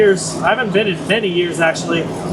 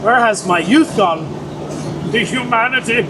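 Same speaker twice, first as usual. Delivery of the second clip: mock meltdown; 5 semitones higher than usual. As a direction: play a fake crisis of lost youth, half-laughing at yourself. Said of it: "meltdown there for a second".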